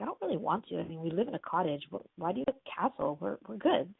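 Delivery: mildly reluctant protest; a touch of hesitation in a retold objection; hesitant. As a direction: push back gently, unsure.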